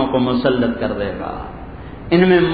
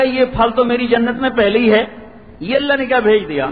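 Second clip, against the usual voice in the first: higher, puzzled exclamation; surprised believer; 6 semitones higher than usual. Acted. Believer in paradise puzzled by the angel's gift, surprised. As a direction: wonder aloud what was sent.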